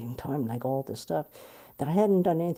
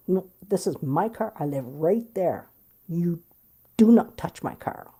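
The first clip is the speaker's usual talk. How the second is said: adamant; 2 semitones higher, 5 dB louder than usual. Retold or imitated. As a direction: insist on your car, building to a sharp warning. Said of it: "I was very adamant".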